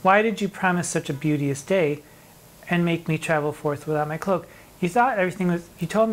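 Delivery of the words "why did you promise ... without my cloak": poem reading. Acted. Recites the sonnet aloud.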